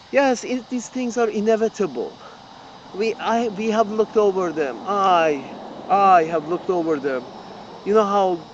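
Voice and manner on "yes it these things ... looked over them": mock-authoritative expert, a touch softer. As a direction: ape a smug pundit lightly. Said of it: "with such an authoritative voice".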